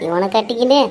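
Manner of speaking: low, muttered complaints; daughter-in-law muttering about her crazy in-laws; grumbling to herself. Acted. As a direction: mutter under your breath, fed up.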